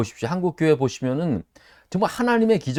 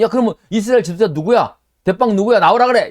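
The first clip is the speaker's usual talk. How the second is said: mock challenge shout; 7 semitones higher, 8 dB louder than usual. Enemy kings calling out leader.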